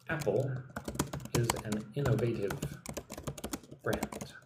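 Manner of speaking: Apple, innovative, brand said in separate chunks; teacher chunking Apple is an innovative brand for students; split demo. Shown as a demonstration. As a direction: break the sentence into pieces for the learner. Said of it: "You should say".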